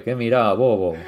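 parodia ligera de doblaje con acento argentino; Messi. Acted. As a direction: imita en broma un reto argentino. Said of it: "como los doblajes de Messi sería". (imitación argentina de broma)

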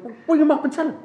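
high laughing impression of dad; mock dad, cracking up; laughing dad quote. Dad voiced, laughing retelling.

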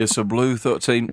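British accent, announcing the roll. Real, not acted. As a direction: say it like a proper Brit. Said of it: "It immediately turned British".

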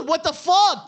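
loud, high mock outburst; retold disbelief. Host retelling his shock at a tweet, mock outraged.

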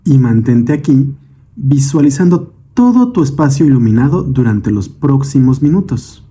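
calm meditation guide, measured phrases with long pauses; guided meditation. Acted. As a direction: lead the listener gently through breath and imagery, unhurried. Leads a guided breathing meditation. (meditación guiada, voz tranquila y pausada)

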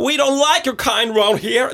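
best shot at an Irish local; Irish accent. Acted. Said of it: "mitt beste forsøk på irsk".

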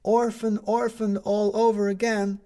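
high, loud, drawn-out headline cry; newsboy shouting at office workers, high and drawn out. A narrator's reading. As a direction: belt it over the crowd like a paper boy. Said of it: "he shouted at them".

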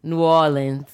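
New Orleans local pronunciation; New Orleans accent. Shown as a demonstration. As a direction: say the city with a New Orleans lilt.

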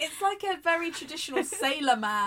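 high, loud, hammed-up old sailor; hint of a sailor voice. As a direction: ham up a salty sailor man. Jokingly voicing an old sailor.

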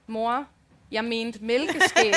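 deadpan, very slow and cool; cool and dry. Retold or imitated. Daughter coolly correcting her mother, deadpan and slow. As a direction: drop it coolly, unbothered. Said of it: "siger Aisha bare helt køligt".

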